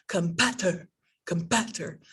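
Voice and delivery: "competitor" as com-PUT-er, short middle vowel; short, reduced stressed vowel in "competitor"; wrong vowel demo. Shown as a demonstration. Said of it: "So I don't say".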